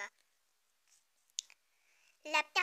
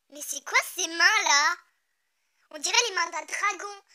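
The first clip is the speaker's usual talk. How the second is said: shocked exclamation; 11 dB louder than usual. Real, not acted. Shocked by the drawing.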